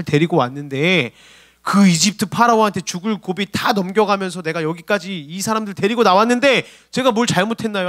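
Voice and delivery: Moses' indignant protest to God; acted crying out. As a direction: plead your case forcefully, aggrieved. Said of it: "모세가 여호와께 부르짖어 이르되".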